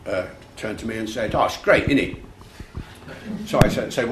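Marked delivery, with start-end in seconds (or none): 1.3-2.2 higher-pitched Cockney impression; inner-city London teen. Sixteen-year-old lad answers at the Globe, imitated Cockney. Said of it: "this sixteen-year-old".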